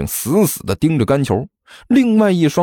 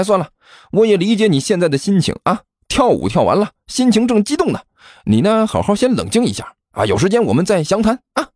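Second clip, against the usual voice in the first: higher, smug and soothing; mocking fat boy; 6 semitones higher than usual. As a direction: pat him on the head with words. Gan Qiu mocking, placating. (高声得意地安抚)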